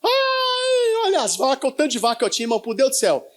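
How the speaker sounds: high opening wail, then tearful lament; mock wailing. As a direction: imitate an old man bawling over his cows. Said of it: "Chorando pelas vacas que ele tinha". (lamento choroso de velho, imitado)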